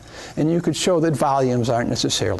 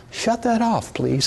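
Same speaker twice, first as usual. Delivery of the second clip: pitched high, a gentle singsong "Shut that off, please"; the mild, polite version he jokes he won't use; high mock-polite request; 5 semitones higher than usual. Shown as a demonstration. Teacher demoing a polite warning to the gas-jet student, high and sweet. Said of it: "I probably won't say it in that tone of voice".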